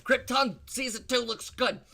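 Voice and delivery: sarcastic praise, pitched high. Pretend. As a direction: gush over it without meaning it. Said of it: "I'm just kidding about Krypton Season Two".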